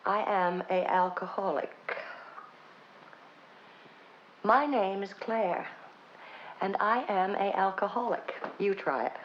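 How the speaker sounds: a hint of a small girl's voice; little girl voice. Confessing at the meeting in a lightly voiced little girl voice. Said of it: "in my little girl voice".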